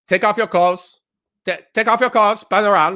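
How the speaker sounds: doctor ordering a recruit to undress, in mock Asian accent. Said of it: "he's saying it with an Asian accent".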